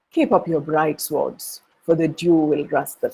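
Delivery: utterly unruffled before drawn swords; calm. Acted. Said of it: "Very calmly".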